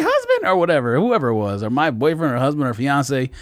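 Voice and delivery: high put-on woman's voice; exaggerated high voice imitating a woman; mock woman's voice. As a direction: quote her in a mock-feminine pitch. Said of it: "Why am I doing that voice?".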